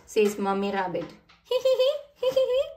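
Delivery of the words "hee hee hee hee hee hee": high giggle then playful loud grrr; roaring dinosaur. Acted. George shows his dinosaur to Richard with a playful roar. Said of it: "roars George".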